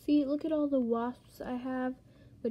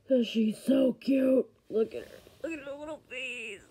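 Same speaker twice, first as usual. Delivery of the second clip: overwhelmed by cuteness. Real, not acted. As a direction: coo over something adorable. Gushing over cute villager.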